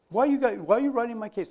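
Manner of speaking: put-on touchy protest; mock defensive retort. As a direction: imitate workers pushing back at the boss. Acted retort of confronted employees.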